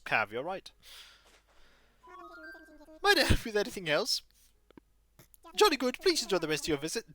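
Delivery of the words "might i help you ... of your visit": high, hooting owl who startles awake, then greets politely; be a flustered old owl curator, hooting and courteous; fussy owl curator. Acted. Owl curator welcoming Sandstar to the museum, hooting and polite.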